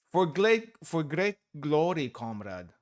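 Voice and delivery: a hammed-up Russian accent, proud salute; mock Soviet comrade voice, grand. Streamer trying a Soviet accent on the comrade line, hammed up. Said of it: "might use a Soviet accent".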